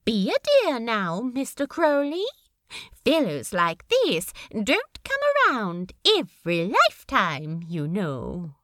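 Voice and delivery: lightly voiced fond landlady, a touch stern; Tracy's voice. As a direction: gently warn him like a doting landlady. Tracy lectures Crowley.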